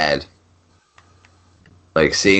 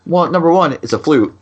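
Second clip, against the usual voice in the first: mock lecture; 5 semitones higher than usual. Dad mock-lecturing son.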